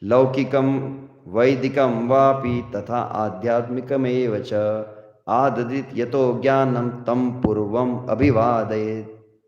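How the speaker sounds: slow, measured shloka chanting; Sanskrit verse recitation. Acted. Teacher reciting Manu's verse on honouring gurus, slow recitation. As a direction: recite the verse in long, drawn syllables.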